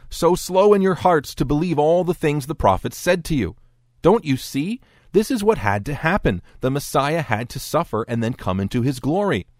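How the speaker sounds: acted exasperated rebuke. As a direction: lecture them with patience worn out. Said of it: "Jesus can't take it anymore".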